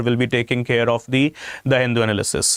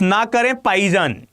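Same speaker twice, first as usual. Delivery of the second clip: ना करें पाईजान with the Pakistani p for bh, quick; Pakistani accent; 5 semitones higher, much faster than usual. Retold or imitated. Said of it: "in their Pakistani accent".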